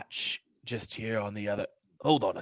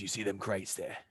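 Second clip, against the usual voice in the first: imp whisper; 3 dB quieter than usual. Acted. Imp whispers to party at window.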